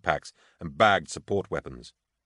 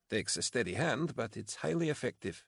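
soft, higher, deadpan reply; weakly amused; 5 semitones higher, 8 dB quieter than usual. A narrator's reading. Tired officer joining a colleague's joke, weakly amused. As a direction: play along with a weak grin. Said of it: "replied with a weak grin".

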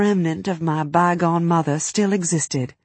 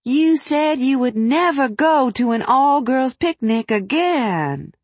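loud stage whisper; 8 semitones higher than usual. A narrator's reading. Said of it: "whispered loud enough for everyone at the table to hear".

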